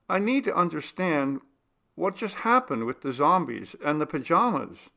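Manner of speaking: Eric pressing. A narrator's reading. Eric voiced, pressing questions.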